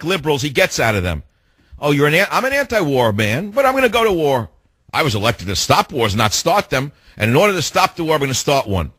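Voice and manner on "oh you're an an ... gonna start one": lightly lampoon a two-faced politician; mock Obama voice. Host lampooning the president's war talk, a sarcastic put-on voice. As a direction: pitch jumps higher on the sarcastic lines. Mocking Obama's contradictions in his voice.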